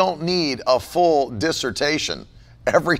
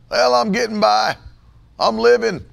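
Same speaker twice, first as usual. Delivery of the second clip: higher, louder mock-resigned answer; mocking a weary reply; 6 semitones higher, 3 dB louder than usual. Preacher mimics Christians' tired answers, mocking. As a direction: ham up the half-hearted reply. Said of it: "I hate hearing that stuff".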